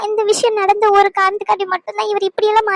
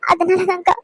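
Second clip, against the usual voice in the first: crying. Acted. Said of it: "இப்ப எதுக்கு வீணா அழுதுகிட்டு இருக்க".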